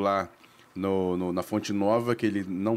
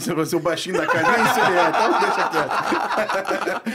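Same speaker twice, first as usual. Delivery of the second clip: laughing; 6 semitones higher, 6 dB louder than usual. Real, not acted. Joking amid group laughter.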